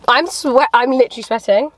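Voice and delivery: flustered after a gasp; gasp, then fluster. Real, not acted. Gasp after dropping lettuce.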